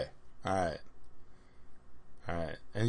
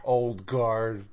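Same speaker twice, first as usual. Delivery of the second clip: laughing; 5 dB quieter than usual. Real, not acted. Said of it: "It's funny".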